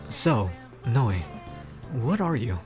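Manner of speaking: low, slow questioning; deep, measured character voice; deep-voiced Pierce. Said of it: "how deep the guy's voice is".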